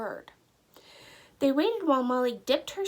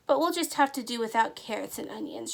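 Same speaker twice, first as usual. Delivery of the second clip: sighed; faster than usual. Acted. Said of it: "she sighed".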